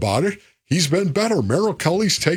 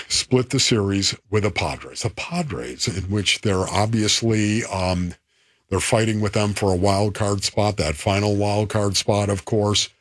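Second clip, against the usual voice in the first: baseball announcer voice; 8 semitones lower than usual. Real, not acted. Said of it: "you still say it like a baseball announcer".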